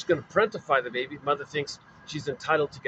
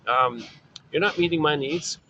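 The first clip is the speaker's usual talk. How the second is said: put-on freaking-out baby. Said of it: "Poor baby's freaking out here".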